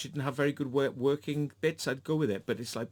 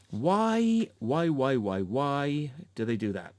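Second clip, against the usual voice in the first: exasperated outburst; 4 dB louder, slower than usual. Real, not acted. Exasperated rant about performance.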